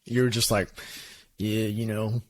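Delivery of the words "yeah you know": laid-back mimicry of the co-host; imitated chill. Teasing the co-host about the last episode, imitated chill. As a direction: play it mellow and unbothered. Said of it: "You were so chill".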